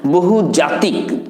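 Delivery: বহুজাতিক drawn out slowly, syllable by syllable; slow careful word. Shown as a demonstration. Teacher slowly stresses বহুজাতিক for learners. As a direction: stretch out বহুজাতিক for the class. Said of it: "মাল্টিপল নয়".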